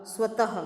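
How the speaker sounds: स्वतः with a firm ह released at the end; visarga sound. Shown as a demonstration. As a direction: stress the final ह in स्वतः. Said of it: "उस शब्द का उच्चारण होगा". (स्वतः का अंतिम ह साफ़ और ज़ोर से)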